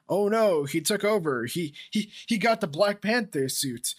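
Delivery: high, loud fake-dramatic astonishment; mock shock. Fan mocking Black Panther's predictable suit twist, sarcastic mock shock. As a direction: play up sarcastic surprise, stretching the punchline.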